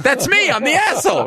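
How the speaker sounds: very high, comic retold call down the aisle; calling out loud. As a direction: pipe up high to own up, hammed-up. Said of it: "You said that out loud?".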